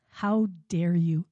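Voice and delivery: slow, indignant retold scolding; measured, indignant "how dare you"; angry retort. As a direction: scold slowly, offended. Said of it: "she shakes her finger in my face".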